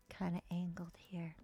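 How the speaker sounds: low whispered aside; whispered to self while decorating. Real, not acted. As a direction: murmur it while placing. Quiet aside while building.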